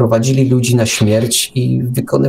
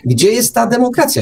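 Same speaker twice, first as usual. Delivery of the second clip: indignant; 11 semitones higher than usual. Real, not acted. Indignant rhetorical question.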